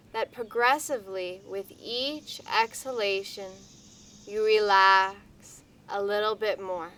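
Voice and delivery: unhurried, soothing hypnotic pacing; guided meditation. Acted. Leads a guided relaxation.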